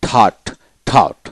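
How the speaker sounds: থট with the vowel drawn long; lengthened vowel. Shown as a demonstration. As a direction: lengthen the middle of থট. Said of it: "মানে দীর্ঘিত হবে". (থট, দীর্ঘ স্বরে)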